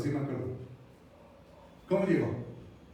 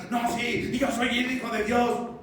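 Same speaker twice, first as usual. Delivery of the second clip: raised, strained protest; mock yelling; 5 semitones higher than usual. Preacher imagining Jesus arguing with Satan, mock yelling. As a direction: imitate someone insisting at Satan, half-shouted. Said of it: "Jesús le estuvo gritando a Satanás".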